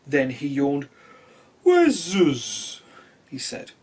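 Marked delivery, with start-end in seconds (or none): 1.6-2.8 calling out. Acted. Sleepy whale calls out.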